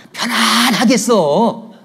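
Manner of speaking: loud, high, long drawn-out relief; mock relief. Preacher voices member wishing another away, mock relieved. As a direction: stretch it out in exaggerated relief.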